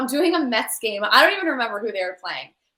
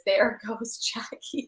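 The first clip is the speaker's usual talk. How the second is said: quoting the caption, slow; 4 dB quieter, much slower than usual. Retold or imitated. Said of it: "caption on the gif is".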